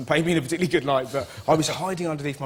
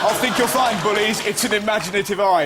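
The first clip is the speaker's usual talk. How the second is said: mock grand verse; 4 semitones higher, 3 dB louder than usual. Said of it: "I had to go up to him and go".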